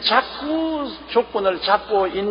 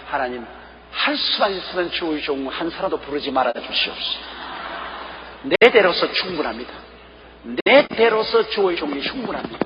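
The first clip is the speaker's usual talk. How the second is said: retold prayer. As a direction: pray it humbly, almost under the breath. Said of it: "마음속에 하나님께 기도를 했다고". (하나님께 드리는 조용하고 간절한 기도)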